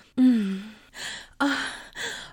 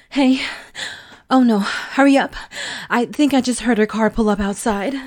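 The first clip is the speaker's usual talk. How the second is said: panicked rush; 4 dB louder than usual. Acted. Panicked hearing car arrive.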